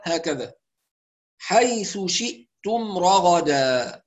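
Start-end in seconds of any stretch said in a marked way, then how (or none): 1.4-4.0 "حيث شئتم رغدا" slow, with crisp stop in "شئتم"; careful recitation. Shown as a demonstration. Teacher introduces the phrase, careful recitation. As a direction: draw out each vowel of "حيث شئتم رغدا". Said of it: "ننتبه طبعًا للهمزة الساكنة".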